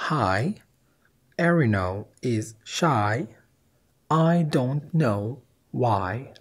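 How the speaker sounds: I don't know why drawn out word by word; slow dictation; slow careful reading. Shown as a demonstration. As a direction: stretch every word. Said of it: "بقوا كلمة واحدة".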